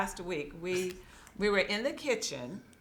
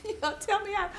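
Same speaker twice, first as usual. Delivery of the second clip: much higher, crying mock complaint; mock whiny wail; 13 semitones higher, much faster than usual. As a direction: wail it like a hurt child. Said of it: "I was like".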